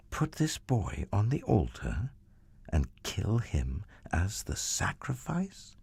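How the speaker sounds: soft, hushed and aghast; hushed disbelief. Acted. Abraham asks himself in horror about God's command, hushed. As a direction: ask it as if you can't believe it. Abraham's horrified inner question.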